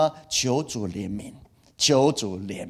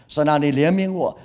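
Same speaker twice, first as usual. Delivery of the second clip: plea to God pitched higher and louder; rising pleading prayer; 4 semitones higher, 4 dB louder than usual. Shown as a demonstration. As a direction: cry out the plea more urgently. Pastor voices pleading prayer.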